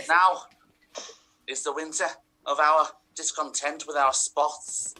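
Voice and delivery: Scouse Shakespearean. Acted. Actor declaiming Shakespeare to audience in Scouse. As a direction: declaim like a Scouse Richard III. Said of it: "Scouse accent ... but also Shakespearean".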